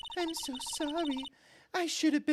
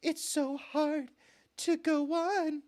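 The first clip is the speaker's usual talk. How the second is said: with a smile in the voice; smiling; slower than usual. Acted. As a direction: say it through a smile. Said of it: "Why would you smile while you say that?".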